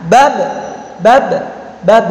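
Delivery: "Bab" with the final b held briefly shut; held sound. Shown as a demonstration. Teacher confirming suaranya tertahan, held sound. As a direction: stop firmly on the end of "Bab". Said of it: "suaranya terta".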